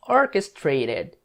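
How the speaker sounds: "Orchestrated" drawn out syllable by syllable; slow model word for students; slow pronunciation demo. Shown as a demonstration. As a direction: say "Orchestrated" very slowly, as or-kes-tra-ted.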